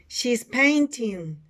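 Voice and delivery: slow repeat for learners; model sentence for repeating. Shown as a demonstration. Teacher repeats for students, slow model delivery. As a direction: say it slowly, syllable by syllable. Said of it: "Repeat after me".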